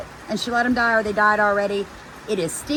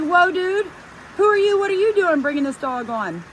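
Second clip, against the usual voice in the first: calling out; 7 semitones higher than usual. Retold or imitated. Yelling at stranger bringing dog.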